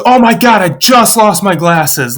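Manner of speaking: high start, dropping into dismay; lightly acted panicked exclamation; mock panic. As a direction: imitate a mother realizing her loss. Mom voiced panicking over lost glasses.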